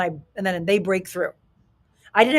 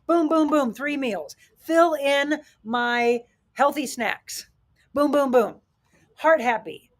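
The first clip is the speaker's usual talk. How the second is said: a little higher, upbeat checklist rattle; peppy planner voice, mildly raised; energetic goal setter; 3 semitones higher than usual. Shown as a demonstration. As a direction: tick off the plan with gusto. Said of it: "Are you gonna say".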